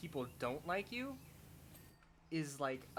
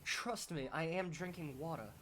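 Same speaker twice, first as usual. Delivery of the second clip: higher, hammed-up attempt at a British accent; bad try at British accent; 3 semitones higher than usual. Streamer assuring viewers they drink water, failed British accent. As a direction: make a clumsy, playful stab at British. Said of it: "just a bad try at a British accent".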